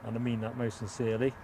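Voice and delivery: a hint of Huey Green, rising on mean; catchphrase nodded at, barely voiced; lightly voiced Huey Green. To the livestream viewers, a faint Huey Green catchphrase. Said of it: "That's my Huey Green".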